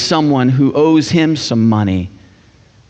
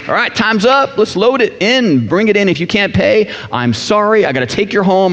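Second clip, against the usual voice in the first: higher, brisk debt collector voice; mock creditor; 6 semitones higher than usual. Preacher mimics a creditor, pitched a bit higher. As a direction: play a pushy creditor, lightly. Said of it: "the creditor saying".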